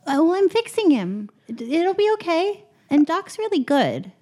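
calm her down while working; reassuring character voice. Acted. Character reassures panicking dwarf.

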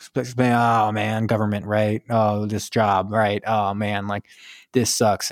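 halting, drawn-out reluctant grumble; mock hesitant complaining, in fits and starts; hemming and hawing. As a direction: lightly imitate someone stalling and griping. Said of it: "he's kinda hemming and hawing".

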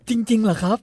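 high, loud astonished question; light up in disbelief; surprised. Retold or imitated. Young man hears she agrees, asks in surprise. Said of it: "ไอ้หนุ่มบอกว่า".

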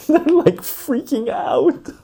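high, drawn-out mock squeal; excited girl impression. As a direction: imitate a girl in falsetto. Acts girl reporting her friends' panic.

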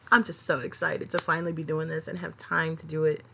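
ordinary delivery

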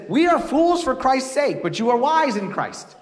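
slow, pointed sarcastic contrast; dry sarcastic jab at the Corinthians. Retold or imitated. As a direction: lean on the irony with mock humility.

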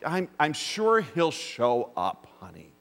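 slow, breezy shrug of a line; lazy mock calm to a spouse; mock nonchalance. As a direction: play it as unbothered as you can. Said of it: "this was not a nonchalant thing".

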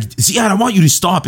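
high, stern teacher. Retold or imitated. Teacher shouting at Ziad in class, high and stern. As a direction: snap at the student in a high voice. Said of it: "he's like".

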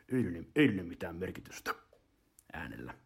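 low, subdued reader's voice; imitating a low-voiced narrator; Tauno Pajukallio. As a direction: drop low and soft at the end. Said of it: "Tauno Pajukallio puhui aika matalalla".

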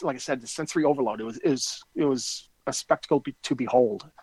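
thick-tongued, slurred medicated speech. Real, not acted. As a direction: talk as if your tongue is too big. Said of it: "I'm medicated here".

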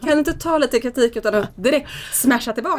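laughing through the son's jab; mock amused scolding; laughing taunt. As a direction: son laughing at his mother. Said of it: "garvar och bara".

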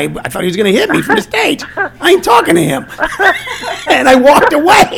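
high-pitched, laughing retelling; cracking up at your own story; laughing while telling. Real, not acted. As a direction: tell it through rising laughter.

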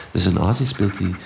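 blocked nose, talking through it; stuffy nose. Real, not acted. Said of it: "zeg ik met een verstopte neus".

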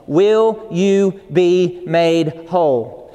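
very slow, weighty question; solemn voice of God. Retold or imitated. Preacher voicing Jesus at the pool, slow and solemn. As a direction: let each word land slowly and gravely. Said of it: "I could hear the voice of God so loud and so strong".

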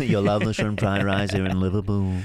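badly faked Liverpool server; bad Scouse accent. Cohost plays a server pitching shrimp fried rice, bad Scouse accent. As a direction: put on a hammy Scouse lilt. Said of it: "that's very bad Scouse accent".

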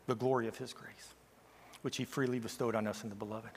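low, soft, hushed scripture reading; quiet, winding down. Real, not acted. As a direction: read it hushed, catching breath before building again. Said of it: "I'm catching my breath".

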